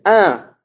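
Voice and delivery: a said as a nasal vowel, air through mouth and nose; nasal a, mouth open; nasal French vowel. Shown as a demonstration. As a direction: let the a ring through the nose. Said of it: "que es un sonido nasal".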